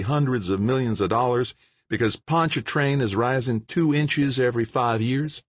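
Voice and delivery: scolding the experts; mayor's voice. Acted. Mayor rebukes the officials.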